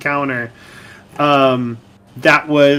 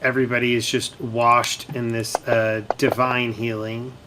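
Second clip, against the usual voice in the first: lower, softer scene telling; game master narration; 5 semitones lower, 9 dB quieter than usual. Acted. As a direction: narrate the healing quietly. Game master describes the healing.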